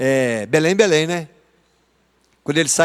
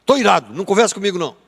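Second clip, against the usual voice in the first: sulky Jonas; 4 semitones higher, much faster than usual. Retold or imitated. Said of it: "Eu vejo Jonas falando assim com Deus".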